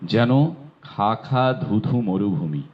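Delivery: slow and deliberate, each word laid out evenly; unhurried elocution demo phrase; slow model recitation. Shown as a demonstration. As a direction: recite it slowly like a pronunciation model. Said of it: "এখন উচ্চারণের class হচ্ছে".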